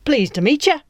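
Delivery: high, eager pirate sidekick; chirpy lackey greeting; first mate voice. Acted. First mate Flea speaks.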